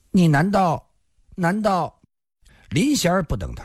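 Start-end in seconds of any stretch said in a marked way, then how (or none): 0.1-2.0 higher, halting and flustered; flustered stammering. A narrator's reading. Blushing Sun Xiaohong struggles to question her rival, stammering. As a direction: falter on a higher pitch, unable to finish. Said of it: "痴痴地说道".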